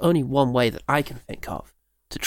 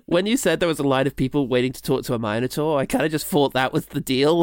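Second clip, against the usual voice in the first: normal talking voice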